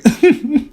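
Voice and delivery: high, teasing chuckle; imitated mocking laugh. Man laughing at his ex on phone, mock chuckle. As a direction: laugh at them as a taunt. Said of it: "he was just laughing".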